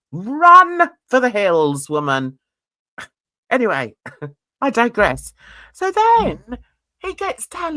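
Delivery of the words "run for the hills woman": loud, drawn-out warning cry; urgent call. Pretend. Vlogger urging Jackie to run from her husband, mock urgent call.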